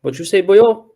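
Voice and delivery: mock Welsh accent, loud and high. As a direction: shout it in a hammy Welsh accent. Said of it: "little Welsh accent".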